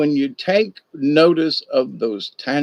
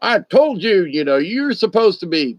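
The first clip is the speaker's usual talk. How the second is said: stern scolding; 5 semitones higher than usual. Retold or imitated. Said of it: "my face is all scrunched up".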